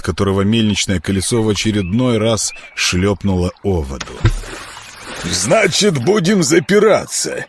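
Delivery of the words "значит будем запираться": mock inquiring. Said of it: "осведомился Курдюм".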